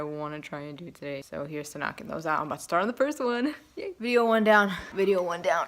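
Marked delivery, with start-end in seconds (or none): 3.8-4.7 loud happy announcement; excited cheer. Real, not acted. Cheering after finishing first video. 4.9-5.7 whispered repeat; whispering. Real, not acted. Repeats the same words whispered.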